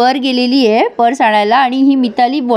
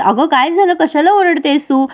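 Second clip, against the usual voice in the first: higher-pitched retold concern; puzzled parent, lightly voiced; mildly alarmed questioning; 4 semitones higher than usual. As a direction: ask what the fuss is, lightly acted.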